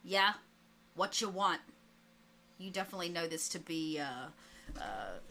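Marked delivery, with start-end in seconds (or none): 0.0-1.6 lightly gruff man picking up the phone; a hint of a gruff crook. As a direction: answer the phone curtly, a bit gruff. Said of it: "and a gruff voice".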